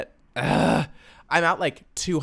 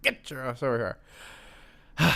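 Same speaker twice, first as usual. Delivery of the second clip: mock threat. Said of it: "I will say".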